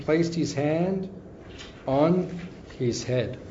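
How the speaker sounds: slow, solemn storytelling with weighty pauses; scripture reading. Acted. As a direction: read the holy story as if to a hushed temple hall. Reads scripture passage aloud.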